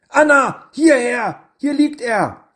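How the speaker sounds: loud, high-pitched shout to a friend; urgent calling out. A narrator's reading. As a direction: call her over urgently, voice leaping up. Boy calls friend to the wounded boy. (aufgeregtes, lautes Rufen)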